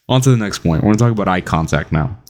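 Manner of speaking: ordinary delivery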